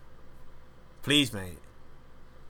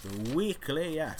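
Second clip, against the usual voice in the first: higher, slow announcer read of the title; 6 semitones higher, slower than usual. Shown as a demonstration. Host announcing his podcast segment, in a mock announcer voice. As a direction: announce the segment name grandly. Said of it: "the weekly yak next".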